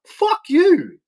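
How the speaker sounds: sudden high angry outburst; high, sharp burst of anger; angry retort. Retold or imitated. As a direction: fire it back with contempt. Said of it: "And I'm like".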